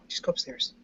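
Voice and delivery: hushed order to her daughter to go upstairs; hand over the phone. Real, not acted. Aside to daughter during call.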